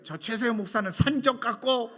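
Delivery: mock outraged caller, high and loud; retold angry insult. Caller insulting a fellow pastor, mock indignation. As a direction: imitate an indignant complaint. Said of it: "막 그 말을 하는데".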